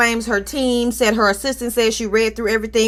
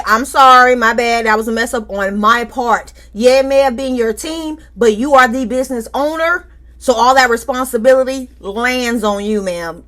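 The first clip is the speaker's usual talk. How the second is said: mock apology script; 3 dB louder than usual.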